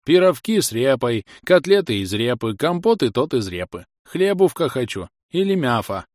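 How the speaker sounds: put-on lisping old grumbler, a touch whiny; toothless old man. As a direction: whine for bread with no teeth. Old man complains about turnips. (шамкающий старик)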